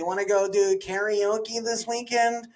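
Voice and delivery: chirpy everyman voice, only lightly put on; regular white guy voice. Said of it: "the regular white guy voice".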